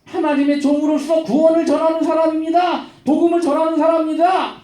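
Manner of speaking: high-pitched public proclamation, acted out; crying out. Slave girl following Paul announces him to everyone, crying out. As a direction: call it out to the whole crowd. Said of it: "뒤에서 따라다니면서 외쳐요".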